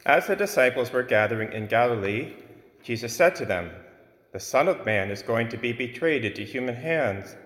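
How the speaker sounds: solemn liturgical reading aloud; Gospel proclamation. Acted.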